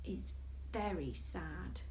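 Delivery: mock sad. A narrator's reading. Sad part of story.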